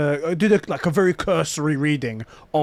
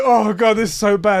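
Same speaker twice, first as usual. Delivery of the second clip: higher, louder groan of dread; retold freak-out; 4 semitones higher, 5 dB louder than usual. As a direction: act out mounting nerves. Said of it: "I'm just freaking out".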